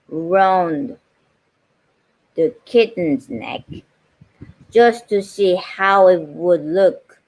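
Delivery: measured storybook reading voice; gentle read-aloud pace with pauses; story narration. A narrator's reading. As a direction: read it aloud like a bedtime book.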